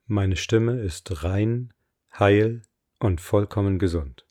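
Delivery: slow, deliberate affirmation voice; affirmation reading. Acted. Coach reads her voice affirmations for listeners to repeat, slow affirmation reading. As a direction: read each line with weight and pauses.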